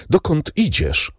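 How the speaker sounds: high-pitched pleading question; urgent question. A narrator's reading.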